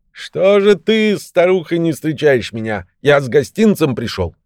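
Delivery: loud call. A narrator's reading. Old man calls his wife out to greet him, loud call. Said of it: "крикнул он громким голосом".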